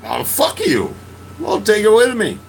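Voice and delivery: mock angry snap, rising high and loud; retold angry retort. To friend over the vodka, a mock angry retort. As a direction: fire it back at him.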